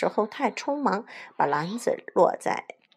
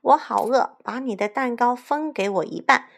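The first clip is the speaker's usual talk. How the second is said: raised, higher wolf call; hungry shout; 5 semitones higher, 4 dB louder than usual. Acted. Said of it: "大灰狼在灌木丛中喊道". (饿狼高声喊叫)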